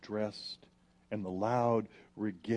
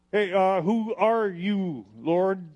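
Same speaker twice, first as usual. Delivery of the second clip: higher, louder, slow awed asking; startled question; 7 semitones higher, 9 dB louder, slower than usual. Acted. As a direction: cry out up to an unseen voice. Saul struck down, asks the voice.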